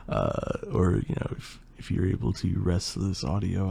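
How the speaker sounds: worn-out, hoarse voice. Real, not acted. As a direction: voice mostly gone, hoarse. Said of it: "I kinda lost my voice halfway through".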